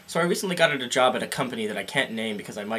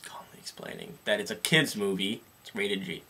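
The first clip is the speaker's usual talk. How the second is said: whispering; 4 semitones lower, 8 dB quieter than usual. Real, not acted. Whispered aside.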